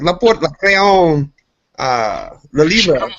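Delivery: loud, high, drawn-out fake French; showing-off French. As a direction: parade classroom words as seduction. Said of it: "I'll be like".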